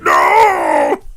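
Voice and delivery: mock despairing yell. Hero watching money fly off train, loud mock wail. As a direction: wail as the money flies away. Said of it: "He's like".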